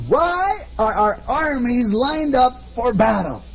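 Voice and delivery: lightly voiced giant's challenge, slow and drawn out; a hint of Goliath's booming dare. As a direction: boom it out like a taunting giant. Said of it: "in a booming voice".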